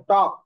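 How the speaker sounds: English talk, টক, with no L sound; টক with the L of talk dropped; silent L. Shown as a demonstration. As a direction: say টক as "tok", leaving the L silent. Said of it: "এল এর উচ্চারণ".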